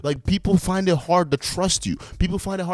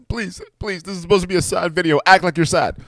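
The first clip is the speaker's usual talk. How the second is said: higher-pitched parody of begging; mock pleading; 4 semitones higher than usual. Reactor mimicking mother coaching her son to act sad, mock pleading. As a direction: put on a high, mock-coaxing voice.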